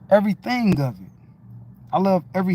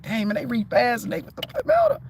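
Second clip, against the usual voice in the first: frustrated inner voice; 4 semitones higher, faster than usual. Retold or imitated. Imitating his younger self's frustration.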